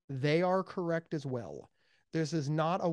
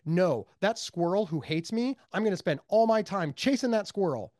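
stubborn dog owner; 3 semitones higher, 4 dB louder than usual. Acted. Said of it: "And you're like".

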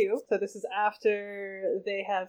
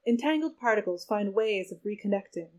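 intoned. Acted. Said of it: "intoned Dana".

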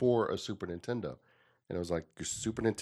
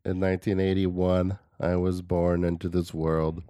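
measured, low-key solemn narrator; lightly voiced documentary storyteller with long pauses; Morgan Freeman voice; 3 semitones lower than usual. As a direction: recount it gravely, pausing between phrases. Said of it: "Are you doing, like, Morgan Freeman voice?".

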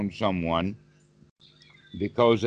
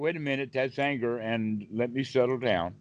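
softer, hushed, catching yourself; calming self-talk; 6 dB quieter than usual. Acted. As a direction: quietly talk yourself back down. Catching oneself after an outburst.

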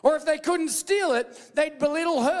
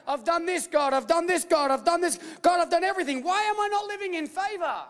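pleading worshipper; 5 semitones higher than usual. Retold or imitated. Pleading worshipper quoted to God.

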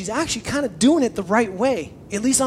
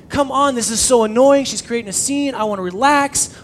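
annoyed whining; 4 semitones higher, 6 dB louder than usual. Retold or imitated. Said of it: "it's like".

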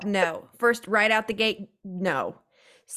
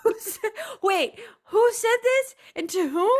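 incredulous; 11 semitones higher than usual. Real, not acted. Shocked disbelief at the quote.

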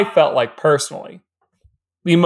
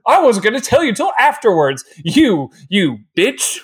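self-important rage; 3 semitones higher than usual. Retold or imitated. Podcaster retelling Hardin's comeback to Tessa, mock rage. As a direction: imitate a pompous tantrum, slowing on the insult. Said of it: "self-important rage".

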